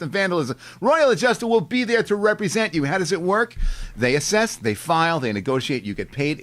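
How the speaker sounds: upbeat sponsor pitch; ad read. Acted. Host reads the insurance sponsor ad, upbeat pitch. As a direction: sell the service like a radio spot.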